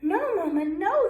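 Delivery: high, pleading no; a little duckling begging mama, loud and high; scared ducklings crying. Acted. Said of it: "they cried".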